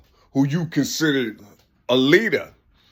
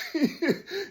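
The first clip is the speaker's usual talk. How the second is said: chuckle; 9 semitones higher, 8 dB quieter than usual. Real, not acted. Amused by his own point.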